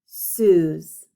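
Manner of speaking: Suze drawn out long and loud; stretched Suze. Shown as a demonstration. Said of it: "You ready?".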